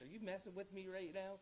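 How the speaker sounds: mock shock, pitch climbing; disbelief. County executive to Kevin on hearing they won, retold incredulous.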